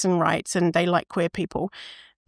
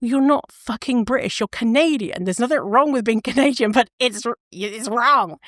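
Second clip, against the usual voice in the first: mildly indignant, higher-pitched retort; pissed off; 3 semitones higher than usual. Acted. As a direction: correct them in acted irritation, half laughing. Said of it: "that would piss me off so much".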